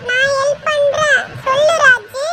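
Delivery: put-on high, slow kid voice; squeaky childish willingness; eager child helper. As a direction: offer it in a little child's high voice. Child Pappu offers help.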